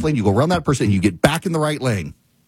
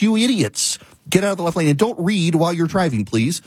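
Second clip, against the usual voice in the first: higher-pitched, fed-up telling-off; exasperated scolding; 4 semitones higher than usual. Real, not acted. Host scolding drivers who read at the wheel, exasperated. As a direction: scold careless drivers, still mad. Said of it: "I'm still mad about it".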